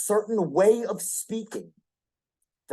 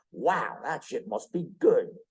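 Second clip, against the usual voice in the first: bottled enthusiasm; 6 semitones lower than usual. Shown as a demonstration. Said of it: "bit of urgency in your voice".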